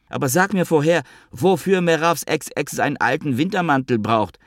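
high, indignant whine of a jilted friend; whiny Avi. Acted. Avi sulks and demands where the ex went, high and whiny. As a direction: needle him in a high sulky voice.

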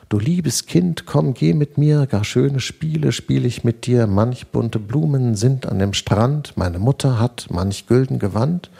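Erlkönig luring. Acted. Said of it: "wie der Erlkönig vor Begierde zittert".

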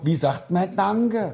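langsam, hoch, ermahnend; strenge Mutter. Retold or imitated. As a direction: Kind belehren, gedehnt. Mutter ermahnt das Kind. (Mutter ermahnt das Kind, langsam und belehrend)

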